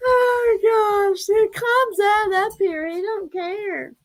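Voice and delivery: high, squealing through laughter; words bubbling out mid-giggle; laughing. Real, not acted. Owner laughing at her dog's butt on camera, high giggly voice.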